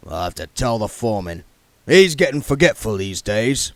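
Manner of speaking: put-on the king sizing up the young man; Harry King voice. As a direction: voice the shrewd old yard boss sizing him up.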